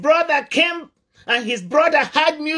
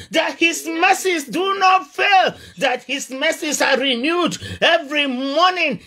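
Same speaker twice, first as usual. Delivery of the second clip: raised, higher preaching shout; fiery preaching; 4 semitones higher than usual. Acted. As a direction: drive it home to the congregation. Preaching at full force.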